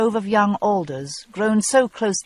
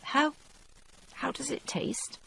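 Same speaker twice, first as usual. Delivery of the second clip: gulping back sobs; 7 semitones higher, 10 dB quieter than usual. A narrator's reading. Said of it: "gulping back the sobs".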